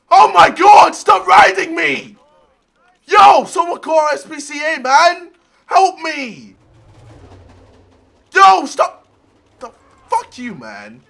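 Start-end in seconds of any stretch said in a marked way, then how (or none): 0.1-9.1 panicked shouting. Real, not acted. Being ridden, calls for help.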